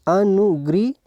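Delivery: अनुग्री drawn out, rising at the end; slow, separated syllables in अनुग्री. Shown as a demonstration. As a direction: stretch अनुग्री as if dictating. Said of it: "ऐसे लिखते हैं".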